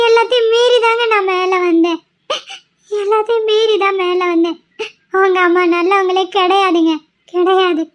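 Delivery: tearful, voice breaking as she speaks; crying. Acted. Wife crying to husband about his mother, tearful and breaking. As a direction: fight back tears while insisting. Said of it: "கண்மணி அழாத".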